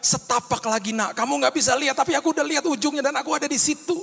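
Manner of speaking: high, loud, encouraging voice of God. Acted. God answering the struggling child. (suara Tuhan yang menguatkan dengan lantang)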